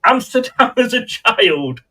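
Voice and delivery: slow amused repeat; laughing disbelief. Real, not acted. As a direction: laugh through the words in disbelief.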